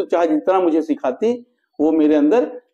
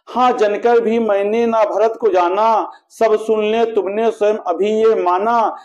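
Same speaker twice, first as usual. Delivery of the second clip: measured, metrical verse reading with sustained line endings; poetry recitation. A narrator's reading. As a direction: recite the couplets in a steady, declaimed rhythm. Recites the queen's lament in verse. (लयबद्ध काव्य-पाठ)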